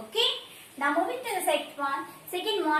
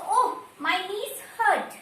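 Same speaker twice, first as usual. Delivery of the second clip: slow, drawn-out groan of sore knees; teacher acting out aching knees, slow and pained; mock pain; 3 semitones higher, slower than usual. Shown as a demonstration. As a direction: moan it slowly like your knees ache.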